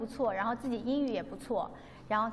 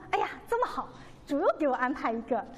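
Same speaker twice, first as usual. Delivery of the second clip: delighted surprise; faster than usual. Retold or imitated. Remembering the delight of hearing a stranger say he believes. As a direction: gasp out the happy surprise.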